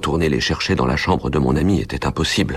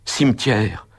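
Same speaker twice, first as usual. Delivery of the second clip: exclaiming; 6 semitones higher, slower than usual. A narrator's reading. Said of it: "m'écriai-je".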